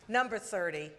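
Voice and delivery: slow, drawn-out booming name call; arena announcer. Acted. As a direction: stretch the name like a ring announcer. Host introduces guest to crowd.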